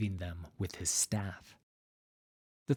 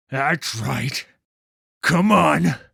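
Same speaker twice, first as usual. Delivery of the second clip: coaxing call; 6 semitones higher, 11 dB louder, slower than usual. Acted. Coaxing the child out.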